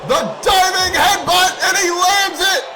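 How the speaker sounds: excited shout. Real, not acted. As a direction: rush it, then erupt as it lands. Anticipating diving headbutt live.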